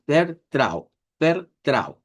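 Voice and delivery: "vertrau" with the R sounded, ending in trau; German vertrau. Shown as a demonstration. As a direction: pronounce "vertrau" with a clear R. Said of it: "Puede decir esto como trau". ("vertrau" con R marcada)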